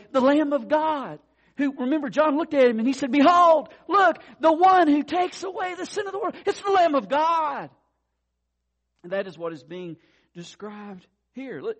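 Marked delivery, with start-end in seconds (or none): 0.1-7.7 rising, loud, ringing proclamation; loud preaching. Real, not acted. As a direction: build it up and proclaim.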